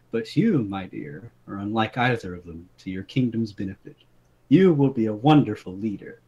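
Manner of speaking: reading a fairy tale aloud, lightly dramatic; story read aloud. Acted. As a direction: read it like a bedtime story to friends. Reads out his written story.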